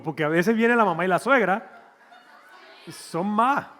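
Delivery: laughing. Real, not acted. Laughing at own joke.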